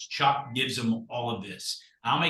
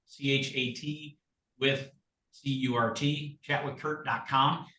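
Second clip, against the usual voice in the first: slow, careful letter-by-letter dictation; spelling it out; 3 dB quieter, slower than usual. Shown as a demonstration. Giving agents the web address, slow spelling-out. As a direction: spell it slowly for note-takers.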